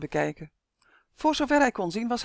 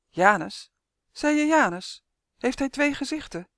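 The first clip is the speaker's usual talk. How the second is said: hoger en opgewonden, vol ongeloof; 7 semitones higher, 3 dB louder than usual. A narrator's reading. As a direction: laat de verbazing hoog opschieten. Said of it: "Uf klonk opgewonden". (Uf hoort de naam Janus, opgewonden en hoger)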